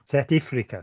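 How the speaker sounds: a touch of South African accent; "South Africa" with lightly put-on South African vowels. Shown as a demonstration. Traitor to Britain naming rooibos's home, mock South African accent. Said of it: "we're not allowed to, to impersonate people".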